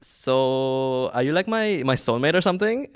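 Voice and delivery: put-on Brooklyn accent. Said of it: "She said in a Brooklyn accent".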